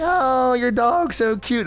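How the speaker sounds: high, slow mock gushing; cooing passer-by. Strangers gushing over his chihuahua on the avenue, high mock coo.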